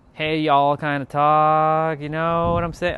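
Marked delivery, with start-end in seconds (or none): 0.1-0.8 Southern accent. Shown as a demonstration. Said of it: "I'm not doing it properly".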